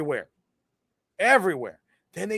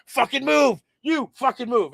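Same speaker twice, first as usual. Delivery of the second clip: mock yell; 7 semitones higher than usual. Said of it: "And Darby's like".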